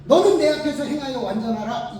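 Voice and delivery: God commanding Abraham, loud; God's command, proclaimed loud. Retold or imitated. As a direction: declare 너는 내 앞에서 행하여 완전하라 with full force. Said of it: "라고 이야기를 해요".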